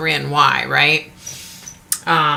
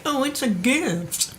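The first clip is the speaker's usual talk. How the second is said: higher, slower sing-song mock; mocking people's saying; 7 semitones higher, 5 dB quieter, slower than usual. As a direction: parrot the cliché with scorn. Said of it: "People say".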